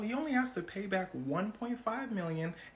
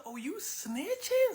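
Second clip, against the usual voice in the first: mock pissed off; 13 semitones higher, much slower than usual. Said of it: "Hush Puppy's pissed".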